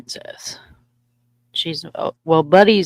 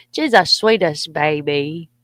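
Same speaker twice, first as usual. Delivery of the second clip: doting; 4 dB louder, slower than usual. Real, not acted. Gushing over her dog.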